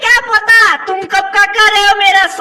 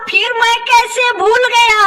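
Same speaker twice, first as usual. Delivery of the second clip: mock crying. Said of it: "फिर क्यों लगे रोने".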